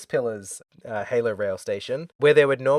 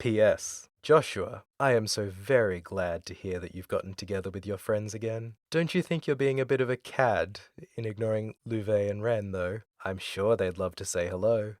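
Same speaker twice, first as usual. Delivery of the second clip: a bit lower and softer, lightly voiced sinister gentleman; deep straight villain; 3 semitones lower, 5 dB quieter than usual. Host retries the villain's postscript in a deeper straight voice. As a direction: keep it deep and straight-faced. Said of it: "Deep, straight".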